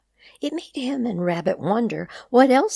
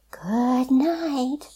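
whispered; 8 semitones higher, 4 dB louder than usual. A narrator's reading. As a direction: hush it as you fall asleep. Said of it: "they whispered".

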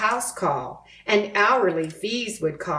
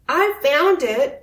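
higher insistent protest; arguing; 8 semitones higher, 4 dB louder than usual. A narrator's reading. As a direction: insist it's yours against Buster. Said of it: "argued Arthur".

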